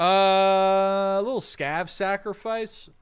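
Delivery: high, slow and loud, like an offering chant; mock ritual voice. Offering a scav at the altar in a slow, high mock-ritual voice. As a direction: draw it out like a solemn sacrifice.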